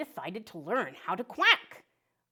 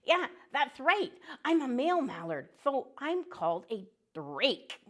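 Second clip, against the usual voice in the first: high, cheerful cartoon duck voice; a chirpy little duck saying hello to kids; friendly duck puppet; 6 semitones higher than usual.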